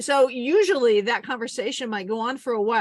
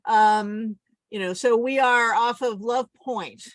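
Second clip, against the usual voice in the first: mayday radio call; 2 semitones higher than usual. Shown as a demonstration. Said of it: "be the Coast Guard".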